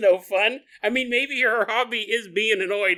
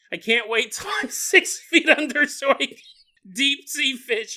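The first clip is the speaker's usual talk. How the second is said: lightly higher put-on voice, slowing at the end; mock fisherman slogan; 6 semitones higher, 3 dB louder than usual. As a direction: read it like a goofy bumper sticker.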